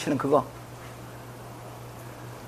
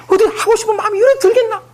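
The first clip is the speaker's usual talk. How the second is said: laughing question; 13 semitones higher, 4 dB louder than usual. Retold or imitated.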